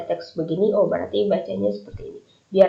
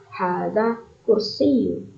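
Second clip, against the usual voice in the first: slow model answer; much slower than usual. Shown as a demonstration. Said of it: "Ma haza?".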